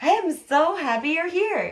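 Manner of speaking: straining, high, loud, overly happy delivery. Speaker with a mask on showing emotions to viewers, demonstrating happiness. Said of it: "I'm trying to demonstrate this emotion to you guys".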